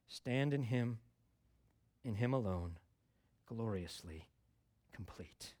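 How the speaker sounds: very slow, deliberate stanza reading, fading at the end; slow hymn recital. Acted. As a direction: linger on each word of the verse.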